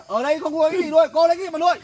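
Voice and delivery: angry scolding. Acted. Quarrel over raising the child.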